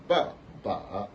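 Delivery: first ba falls, second ba dips and rises; ba ba, falling then dipping; third tone on second syllable. Shown as a demonstration. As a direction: drop "ba", then bend the next "ba" down and up. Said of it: "Celui-là, ça va donner".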